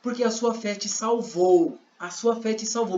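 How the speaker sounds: slow, measured pronouncement; lightly acted solemn declaration, unhurried; Jesus. Speaking to the healed blind man, slow pronouncement. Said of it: "Aí Jesus".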